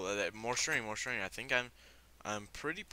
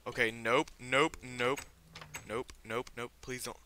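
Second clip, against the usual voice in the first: loud, higher panicked nope; 4 semitones higher, 7 dB louder than usual. Real, not acted. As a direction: back away yelling nope. Panicked refusal at spider.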